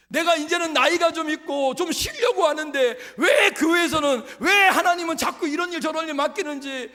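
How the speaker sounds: 높고 크게 외치듯 설교; 회중을 향해 힘차게 몰아붙이는 설교; 열정적인 설교. Acted. Preacher voices members' complaint. (설교자가 회중에게 힘주어 외치는 설교)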